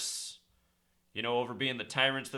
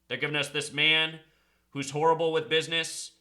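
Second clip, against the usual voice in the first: loud, urgent rant to his viewers; a fired-up conspiracy vlogger rallying followers; 2 semitones higher, 4 dB louder than usual. Acted. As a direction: rail against the elites like a street preacher.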